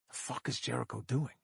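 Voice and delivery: soft, hushed aside to a colleague; baffled whisper. Acted. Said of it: "I whisper to Soch".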